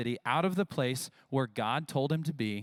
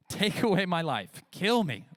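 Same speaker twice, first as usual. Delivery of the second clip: whiny Jonah; 5 semitones higher, 3 dB louder than usual. Acted. Pastor voicing whiny Jonah.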